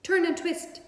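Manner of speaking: high, loud honk; goose honking. A narrator's reading. Goose honking orders at Wilbur. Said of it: "honked the goose".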